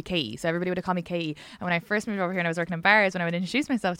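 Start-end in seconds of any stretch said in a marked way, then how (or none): 0.0-0.4 Katie with no T sounded, like "Kay-ee"; Irish dropped T. Shown as a demonstration. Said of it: "that's my accent would be". 1.0-1.4 Katie without its T, like "Kay-ee"; quick Irish Katie, T dropped. Shown as a demonstration. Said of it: "that's my accent would be".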